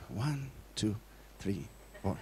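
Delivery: low, hushed count under the breath; quiet, deep, halting count; counting the pause. Shown as a demonstration. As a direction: count softly to yourself, dropping very low. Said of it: "do not do this, like".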